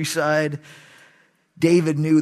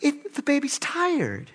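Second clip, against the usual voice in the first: imitating wife; 12 semitones higher than usual. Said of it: "Christy would come home".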